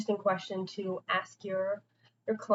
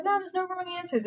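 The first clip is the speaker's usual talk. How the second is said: high-pitched imitated reassurance; retold reassurance; 10 semitones higher than usual. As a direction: lift the voice high to reassure a client. Retold reassurance to hesitant client.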